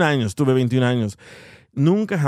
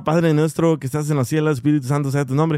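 imitated praying. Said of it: "escuchaba a mi mamá que rezaba".

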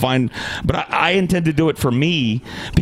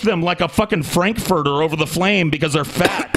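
heated, indignant rant; angry accusation; 4 semitones higher than usual. Real, not acted. Podcaster accusing co-host of roasting fat people, indignant. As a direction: press the accusation with raised pitch.

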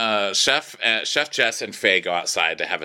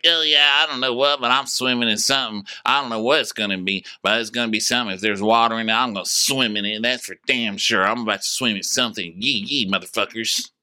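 put-on drunk bro voice; 2 semitones higher than usual. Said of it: "Kyle's like".

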